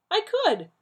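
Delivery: high and loud, losing composure; losing his cool. A narrator's reading. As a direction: blurt it, cool slipping. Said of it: "losing some of his cool".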